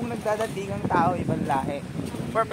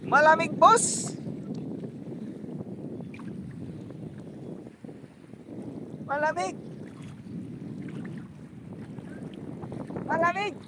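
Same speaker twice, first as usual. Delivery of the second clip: in ice cold water; 8 semitones higher, 4 dB quieter than usual. Real, not acted.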